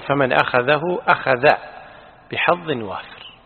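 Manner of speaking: أخذ said without the second final hā'; corrected wording. Shown as a demonstration. Teacher correcting the reader's text, careful demonstration of أخذ without hā'. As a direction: say أخذه with its hā', then أخذ without one. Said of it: "بدون هاء الثانية".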